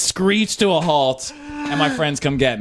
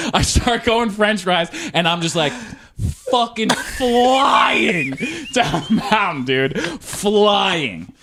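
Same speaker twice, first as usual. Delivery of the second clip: thrilled shout, stretched out and pitched up; excited shout; 6 semitones higher, slower than usual. Retold or imitated. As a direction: relive the rush, shouting it out. Recalling wild speedy descent.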